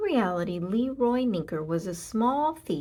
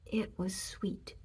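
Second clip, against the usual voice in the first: savouring hush; 8 dB quieter, slower than usual. A narrator's reading. Savouring candy narration.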